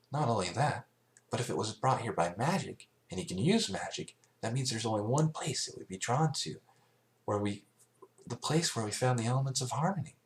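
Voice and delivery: a hint of a clever young mare; thoughtful Twilight. Twilight explains magic.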